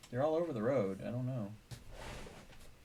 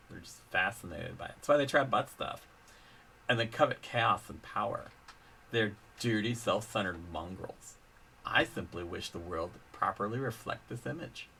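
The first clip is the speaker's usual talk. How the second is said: lightly voiced bratty princess; a hint of whiny cartoon royalty; Lumpy Space Princess voice. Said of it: "lumpy space Princess Carmilla voice".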